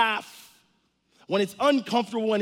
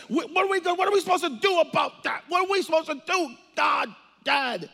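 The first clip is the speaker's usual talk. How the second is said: panicked shout; 4 semitones higher than usual. Acted. Jesus in heaven alarmed at the Pacific Northwest, panicked shout. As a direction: panic as if alarm bells were ringing.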